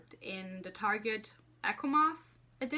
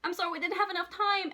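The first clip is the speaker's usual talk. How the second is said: heartbroken goodbye; 8 semitones higher, 4 dB louder, faster than usual. Retold or imitated. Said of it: "and he goes".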